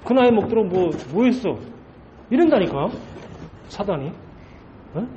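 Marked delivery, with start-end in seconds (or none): 0.0-1.6 lightly acted belittling taunt; mocking Satan. Satan taunts the pastor about his age, mocking. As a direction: jeer at a lack of achievement. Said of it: "저와 여러분을 갖다가 조롱하고 있는 거예요".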